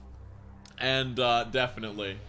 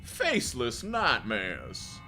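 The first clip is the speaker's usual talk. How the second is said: slow Cassidy-style cowboy drawl; 5 semitones lower, much slower than usual. Shown as a demonstration. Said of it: "Going for, like, a Cassidy voice".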